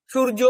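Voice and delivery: সূর্য as shur-jo; Bengali pronunciation. Shown as a demonstration. Teacher argues both letters would sound alike, সূর্য as shur-jo. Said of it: "তাহলে উচ্চারণ একই হতো".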